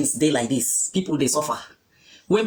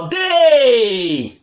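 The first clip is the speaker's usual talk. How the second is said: high, loud cry held long; drawn-out exclamation; 6 semitones higher, 7 dB louder than usual. Real, not acted. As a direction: call it out high and let it slide down. Elated cry that money is sweet.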